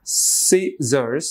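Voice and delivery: "scissors" in two separated parts, rising at the end; split into syllables. Shown as a demonstration. Teacher shows the word has two parts, split into syllables. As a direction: say "scissors" as SCI, then SSORS, lifting the end. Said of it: "দুইটা অংশ".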